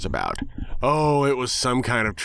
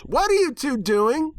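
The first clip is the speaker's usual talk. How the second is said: much higher, louder, slow demanding pony; tomboy pony voice; 4 dB louder than usual. Acted. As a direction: call out like a brash cartoon pony. Rainbow Dash interrupts in character.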